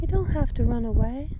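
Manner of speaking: gentle coaxing coo. Real, not acted. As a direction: coax it gently, rising. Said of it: "Don't mind my baby talk".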